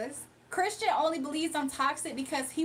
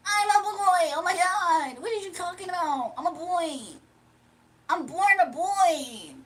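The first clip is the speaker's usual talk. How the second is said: mock Dimitri correcting someone who called him ma'am; Dimitri impression; 4 semitones higher, 5 dB louder than usual. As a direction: stretch out born in a shrill protest. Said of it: "how Dimitri, I see him talking".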